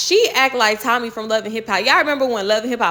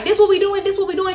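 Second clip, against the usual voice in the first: imitating the girl; 8 semitones higher than usual. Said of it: "when she was like".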